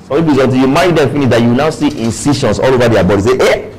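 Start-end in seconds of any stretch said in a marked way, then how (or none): 3.4-3.7 sudden shocked exclamation; acted yelp of surprise. Newlywed shocked at a spouse's body, mock shock. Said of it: "Some of you will be shocked".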